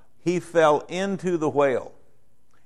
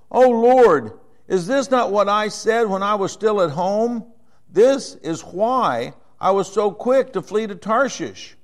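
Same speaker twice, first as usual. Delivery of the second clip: pleading Jonah; 5 semitones higher, 3 dB louder than usual. Acted.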